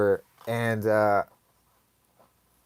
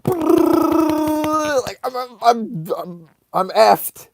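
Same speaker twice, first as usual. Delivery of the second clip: racing-heart panic; 10 semitones higher, much slower than usual. Retold or imitated. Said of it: "My heart's beating at a million miles a second".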